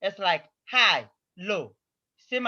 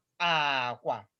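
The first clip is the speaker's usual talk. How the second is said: aqua set on a level low tone; 7 semitones lower, 6 dB quieter than usual. Showing a learner how to say the word for bed: low tone.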